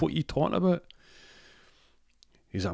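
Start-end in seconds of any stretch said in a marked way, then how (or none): 0.0-0.8 very high incredulous mock question; baffled girlfriend. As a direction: squeal it as a bewildered girlfriend. Girlfriend baffled by Lapland plan.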